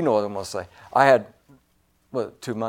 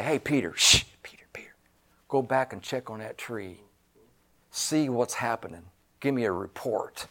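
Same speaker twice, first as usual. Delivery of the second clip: hushed secretive whisper, much softer; 7 semitones lower, 11 dB quieter than usual. Retold or imitated. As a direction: whisper to Peter like checking in secret. Jesus mock-checking on the tree.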